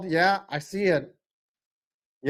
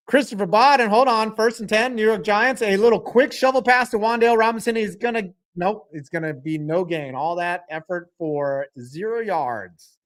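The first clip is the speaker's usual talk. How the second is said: higher-pitched live football call; animated sports commentary; play-by-play; 4 semitones higher than usual. Real, not acted. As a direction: call the action as it happens.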